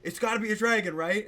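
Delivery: loud hissed whisper-shout, high; whisper yelling. Retold or imitated. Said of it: "sh-, whisper, shout, like".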